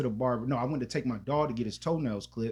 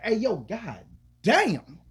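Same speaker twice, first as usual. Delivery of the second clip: slow, high, louder stunned exclamation; surprised; 8 semitones higher, 6 dB louder, much slower than usual. Retold or imitated. Seeing the new worker up close, stunned exclamation. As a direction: let it drag out as if floored. Turns and sees the girl.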